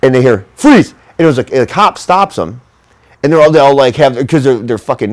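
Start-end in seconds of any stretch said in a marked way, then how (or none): 0.6-0.9 sudden high barked command, a cop yelling freeze; shouting cop stopping the teens near the bridge; retold cop shout. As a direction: snap it out like a cop catching kids in the dark. Cop yells at them in the dark.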